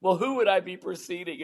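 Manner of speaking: a dismissive pfft, lightly voiced boredom; mock apathy. Speaker retells going apathetic on the call, mock indifference. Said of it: "then I go into apathy".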